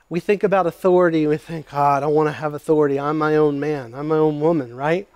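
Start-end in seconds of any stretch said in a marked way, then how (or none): 1.7-4.8 quick mock proud defiance; a lightly mocked independent voice. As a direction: rattle it off like a stubborn rebel. Mocking self-willed listener.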